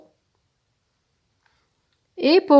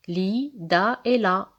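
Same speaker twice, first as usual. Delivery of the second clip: slowly listed syllables; 5 dB quieter, slower than usual. Shown as a demonstration. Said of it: "range les syllabes suivantes".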